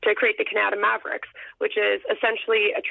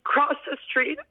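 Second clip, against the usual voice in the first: getting emotional. Real, not acted. Runner recalling her best friend at the finish line, emotional. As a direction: hold back real tears, pausing between phrases. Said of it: "gonna get emotional talking about this".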